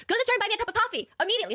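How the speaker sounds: half-hearted scream of an order from outside; retold scream. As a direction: fire off the demand as a hammed-up shout. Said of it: "So then she screams outside".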